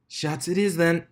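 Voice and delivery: high, bright-toned crowd announcer voice. A narrator's reading. DJ addresses the stadium crowd, booming announcer voice.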